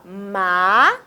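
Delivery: "Ma" held long on its own; isolated syllable. Shown as a demonstration. Teacher separates a word for pupils, isolated syllable. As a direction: stretch "Ma" as one separate piece. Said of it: "vamos separar em sílaba".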